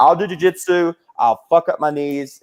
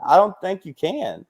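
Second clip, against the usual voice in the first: laughing; 5 semitones higher than usual. Retold or imitated. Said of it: "And I'm like".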